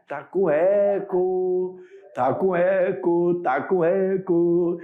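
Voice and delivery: slow words repeated like an echo. Pretend. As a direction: copy the room's echo, slowly fading. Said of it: "tá com eco aqui". (imitando eco)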